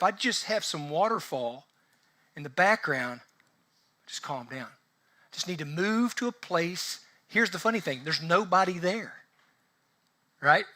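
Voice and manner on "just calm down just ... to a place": mock soothing. TV waterfall telling him to settle, mock soothing. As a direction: drop down into a hushed, soothing tone. Voices the calming TV waterfall advice.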